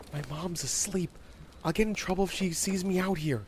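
put-on little girl anxious about getting caught; worried young girl. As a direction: warn a friend to keep it down. Warning friend not to wake mom.

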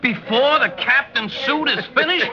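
high, giggling jibe; a chuckling, teasing jab; laughing tease. Acted. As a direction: laugh through the joke. Mocking the captain, laughing.

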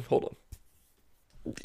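whispered hold on, as if too choked to speak; mock sobbing whisper. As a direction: fake tearful whisper. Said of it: "I choked up there".

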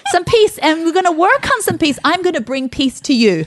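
high-pitched, hurried comic retort; playful challenge. Acted. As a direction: take on the passenger in a teasing rush. Acted challenge to plane passengers.

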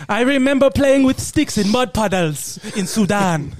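reminiscing in a put-on African accent; comic African accent. Villager recalling childhood in Sudan, African accent. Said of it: "got to do that accent".

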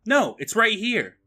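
high, slow mock reply; imitated effects guy. Effects guy answering the director, imitated high voice. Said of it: "and tells him".

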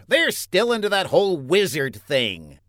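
exasperated little mayor; complaining. Acted. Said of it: "The mayor complained".

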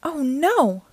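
sudden alarmed gasp of words; alarmed cry. A narrator's reading. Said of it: "I yelled".

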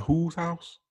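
high, pointed disbelief; incredulous question. Retold or imitated. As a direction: ask it with full disbelief. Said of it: "I'm like".

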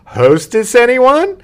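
bright high rising commercial mom; sing-song TV mom. Retold or imitated. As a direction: offer the tray like an ad. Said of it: "she'd be like".

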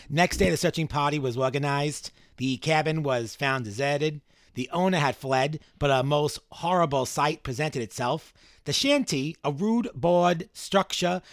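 reading in a weird Boston accent. Shown as a demonstration. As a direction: put on a bad Boston accent. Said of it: "In this weird Boston accent that I was doing".

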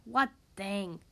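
low, grumpy bear voice; growling bear. A narrator's reading. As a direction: growl it low, storybook style. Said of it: "growled Bear".

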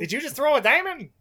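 high incredulous put-on voice; shocked character voice. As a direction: gasp it out in disbelief. Imitating a character's reaction.

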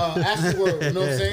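laughing through it. Real, not acted. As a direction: laugh while saying it. Laughs mid line.

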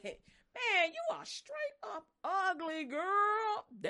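high, loud mocking taunt; mock insult. Preacher voicing a mocker teasing a woman. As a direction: sneer it like a teasing coworker.

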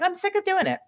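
high, whiny mock complaint; fed-up Wanda. Wanda refusing to hide her powers, high whiny voice. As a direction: whine it like a frustrated teen. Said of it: "And she's like".

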